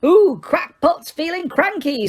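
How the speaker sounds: very high, slow teasing; poltergeist taunt. A narrator's reading. Poltergeist teasing an angry Harry, high and mocking. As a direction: drag out the mockery gleefully. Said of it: "said Peeves".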